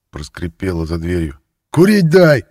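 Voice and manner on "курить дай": much higher, much louder furious yell. A narrator's reading. Thief screaming at the guard for cigarettes. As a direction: scream it at the door. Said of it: "заорал вор".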